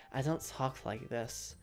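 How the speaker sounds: a hint of a mumbled parody self; mock self-introduction. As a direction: introduce yourself like a dull anime self. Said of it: "Why am I making myself sound like this?".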